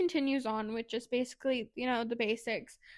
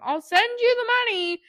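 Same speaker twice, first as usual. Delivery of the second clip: loud exclaiming; 10 semitones higher, 7 dB louder than usual. Retold or imitated. Acted quote, loud high.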